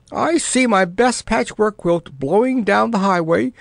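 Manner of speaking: high, wailing moan over her lost quilt. Acted. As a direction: wail it like a lament. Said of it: "moaned Missus So-and-so".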